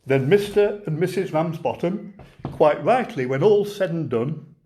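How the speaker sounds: light Lancashire lilt, reciting a comic monologue; a gentle Lancashire storyteller reading a verse tale. Acted. Poet reciting The Lion and Albert to online folks, mild Lancashire lilt. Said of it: "my best Lancashire voice".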